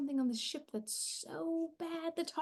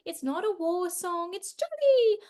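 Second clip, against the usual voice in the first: prim choir teacher; 6 dB louder than usual. Retold or imitated. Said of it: "She said".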